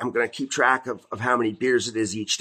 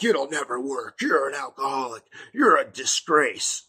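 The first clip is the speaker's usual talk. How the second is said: mock demon taunt. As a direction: taunt him slowly like a creeping demon. Demons taunting him, voiced.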